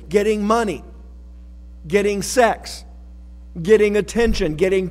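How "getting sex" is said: normal talking voice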